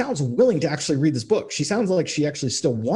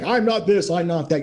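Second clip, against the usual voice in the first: put-on high, petulant whine, like a sulky kid; husband mocked as whining defensively; 5 semitones higher than usual. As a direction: pitch it up and whine like a wounded little boy. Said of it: "whining like a little bitch".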